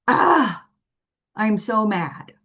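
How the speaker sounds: mock tantrum. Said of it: "And throwing a tantrum".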